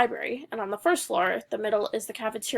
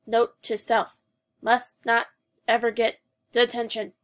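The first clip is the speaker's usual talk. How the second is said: stiff robot voice, lightly done; 4 dB louder, slower than usual. Acted. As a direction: speak like a funny robot. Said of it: "Drew said in a funny ro-, robot voice".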